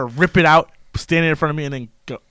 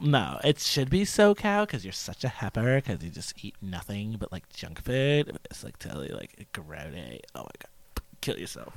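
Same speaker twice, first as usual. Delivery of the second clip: put-on very quiet, hushed, sing-song valley girl voice; 6 semitones lower, 11 dB quieter than usual. Teasing another speaker, putting on a valley girl voice. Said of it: "Every time I hear the voice".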